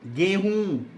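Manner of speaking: गेहूँ with a held nasal ऊँ; गेहूँ, long nasalized last vowel; nasal ending. Shown as a demonstration. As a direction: stretch the end of गेहूँ into the nose. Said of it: "आ रहा है ना नाक पे".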